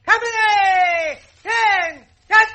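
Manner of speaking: loud clipped drill calls; drill commands. Acted. Captain marching the marines off, loud drill orders. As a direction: snap the troop into motion.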